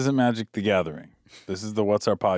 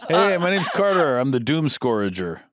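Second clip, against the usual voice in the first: high, laughing mock demon voice; pitched-up comic character hello; goofy demon introduction; 5 semitones higher than usual. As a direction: introduce yourself as a silly demon. Voices demon with ordinary name.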